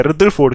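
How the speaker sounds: "रदरफोर्ड" as "rudder-ford"; "रदरफोर्ड" the Indian way with middle r; r pronounced. Shown as a demonstration. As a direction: sound the r before f in "रदरफोर्ड". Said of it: "मैं बोलूंगा इसको रदरफोर्ड".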